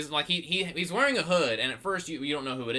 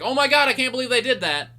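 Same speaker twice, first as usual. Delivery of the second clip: high, loud, quick mock astonishment; amazed fans' outcry; 9 semitones higher, 7 dB louder, faster than usual. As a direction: imitate a crowd blurting out in disbelief. Acting out fans' amazed reaction.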